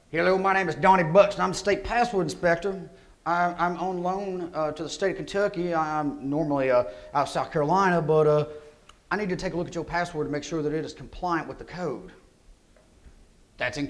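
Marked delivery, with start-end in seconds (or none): 0.1-12.1 lightly put-on South Carolina accent, as a friendly official; Southern accent. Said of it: "y'all are actually gonna hear something of, of my accent".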